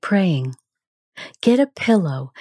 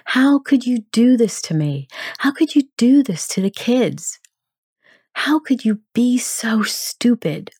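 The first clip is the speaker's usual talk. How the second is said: raised, strained reproach at a dead husband; voicing anger; 3 semitones higher than usual. Grieving wife rages at Tim over his crash, in pained anger. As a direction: let the hurt spill into anger, pitched up. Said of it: "it might sound like this".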